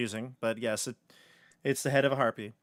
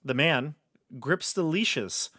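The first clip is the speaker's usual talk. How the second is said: dungeon master narration. Acted. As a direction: paint the room for the players. Game master's scene setting.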